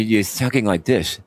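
"talking like this" with a lisped, mushy s; mock lisp on "you're talking like this"; imitated lisp. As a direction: mimic someone lisping on "this". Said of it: "You're lisp".

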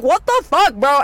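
baffled what the fuck. Retold or imitated. Her reaction to the operator's questions.

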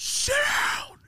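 high, strained mock yell; imitated high-pitched order; teacher's command. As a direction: yell it as an exasperated teacher, voice shooting up. Teacher ordering him to sit.

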